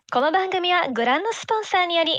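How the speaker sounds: fast, bright anime broadcast announcement; anime sponsor announcer. Retold or imitated. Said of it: "Yeah, I did that".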